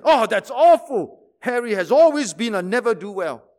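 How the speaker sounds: hammed-up tut-tutting gossip; mock horror. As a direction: drag out the shock for laughs. Shocked gossip in joke.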